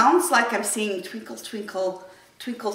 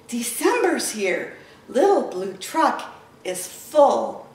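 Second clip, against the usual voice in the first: lively storybook reading; reading to children; slower than usual. Acted. Teacher reading Little Blue Truck to kids, animated storytelling. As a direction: read it to little ones, animated. Reads picture book to children.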